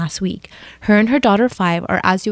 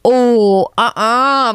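whispered disapproval; 3 semitones higher, 5 dB louder, much slower than usual. Real, not acted. Reacting to the sister-in-law's threat.

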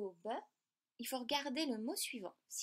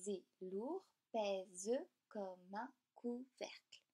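recited verse; much slower than usual. Shown as a demonstration. Reciting a Baudelaire line.

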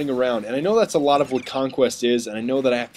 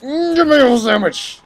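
high, slow squeaky mockery; mock squeaky enemy voice; 12 semitones higher, 5 dB louder, slower than usual. Mocking the attic monster he kills, squeaky voice. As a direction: whine it up high and drawn out. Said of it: "and you're".

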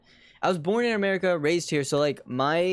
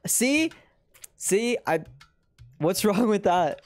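put-on high-pitched indignant child; lightly voiced defensive kid; protesting kid; 5 semitones higher, slower than usual. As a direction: whine back like a kid arguing with a parent.

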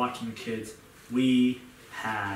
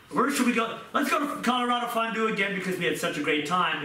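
eager planning; 5 semitones higher, faster than usual. Retold or imitated. Couple planning next anniversary.

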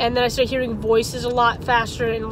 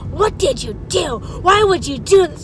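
mock scream; 5 semitones higher, 4 dB louder than usual. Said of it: "her mom is screaming at us".

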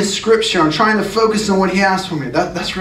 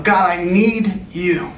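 crying out to God; slower than usual. Acted. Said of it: "This is what he's crying out".

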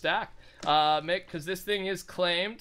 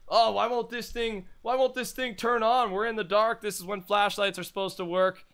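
Mitch impression; 3 semitones higher than usual. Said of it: "Just picturing Mitch".

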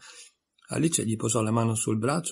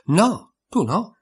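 high, loud scornful no; 8 semitones higher, 5 dB louder, much slower than usual. A narrator's reading. Tweedledee scorning Alice's answer, high scornful retort. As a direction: dismiss her with contempt. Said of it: "in tono sprezzante".

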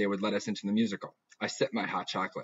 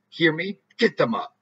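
louder, higher barking father; angry dad; 7 semitones higher, 7 dB louder than usual. Acted. Dad shouting at his daughter about grades. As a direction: shout the order down the table. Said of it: "Dad, bangs table".

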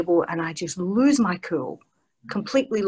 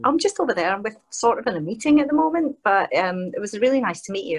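flustered politeness; 4 semitones higher than usual. Retold or imitated. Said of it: "I was like".

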